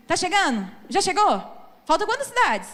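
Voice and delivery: whiny kid asking are we there yet, lightly voiced; like Donkey from Shrek. Preacher mimics kids nagging dad in the car, lightly whiny. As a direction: pester like an impatient child on a road trip. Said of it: "igual o burrinho do Shrek".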